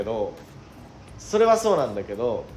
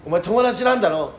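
retold taunt; 5 semitones higher, 5 dB louder than usual. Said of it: "ガッシュに".

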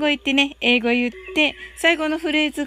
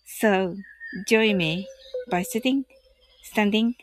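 guided meditation; 2 semitones lower than usual. Acted. Leads a loving-kindness meditation.

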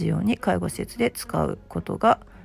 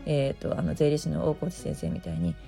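hoarse morning voice; raspy just-woke-up voice; gravelly voice. Real, not acted. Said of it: "ただのガラガラ声で終わってしまった".

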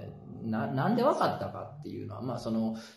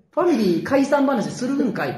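mock tsukkomi retort; 9 semitones higher, 6 dB louder than usual. Comic retort on the scene.

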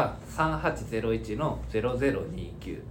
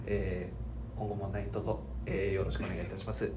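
formal apology voice; 2 semitones lower, 4 dB quieter than usual. Pretend. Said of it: "ベニオジさんに謝罪一個もらっていいですか？".

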